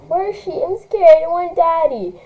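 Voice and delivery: put-on high whining little girl. Scared little sister whining for her daddy, high. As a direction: whimper like a scared small child. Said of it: "started to whine".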